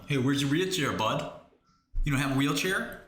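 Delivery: a hint of a jeering bully; mock bully. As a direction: jeer like a schoolyard bully. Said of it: "let's all make fun of him".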